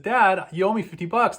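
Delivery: mock furious son. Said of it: "so furious with his dad".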